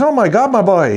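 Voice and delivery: high, loud wail of disbelief; freaking-out buddy. Retold or imitated. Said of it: "he's freaking out".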